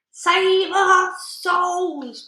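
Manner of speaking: huge, high, very slow panicked bellow. A narrator's reading. Cowardly giant panicking, bellowing for help. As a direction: wail it out in terror. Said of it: "bellowed the flesh lump eater".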